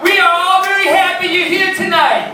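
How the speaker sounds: very high, loud, drawn-out caricature voice; hammed-up loud simpleton greeting; mock condescending greeting. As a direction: greet them with exaggerated, patronizing slowness. Mock over-articulated greeting after hearing autism.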